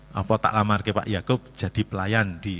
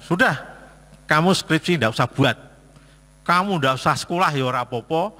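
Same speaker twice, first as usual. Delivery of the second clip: mock stern scolding; 5 semitones higher than usual. Father scolding his child.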